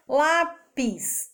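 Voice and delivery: Lápis said as lá-pis, split into two beats; syllable-split demo. Shown as a demonstration. Teacher counting the syllables of Lápis for children. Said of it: "Quantas sílabas tem?".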